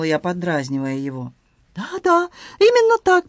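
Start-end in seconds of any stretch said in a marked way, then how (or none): 1.8-3.3 excited Frenchman in broken Russian, high; Antoine voice. Acted. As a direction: play the flustered Frenchman, pitched high. Antoine hasty.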